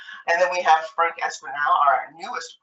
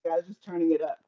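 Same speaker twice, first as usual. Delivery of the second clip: underwater. Real, not acted. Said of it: "you sound like you're underwater".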